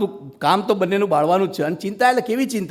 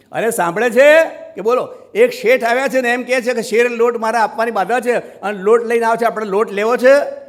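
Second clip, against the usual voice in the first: calling out to wife; 4 semitones higher, 4 dB louder than usual. Acted. Poor man calls to his wife.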